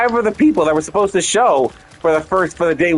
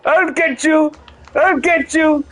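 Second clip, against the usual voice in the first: Donald Duck voice; 8 semitones higher than usual. Acted. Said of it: "this Donald Duck".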